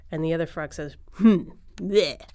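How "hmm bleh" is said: grumpy, loud grunt and raspberry of disdain; grunt, then spit out a "bleh"; disgusted hmm and bleh. Acted. Jealous big frog reacts to newcomer.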